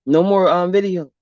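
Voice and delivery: usual speaking voice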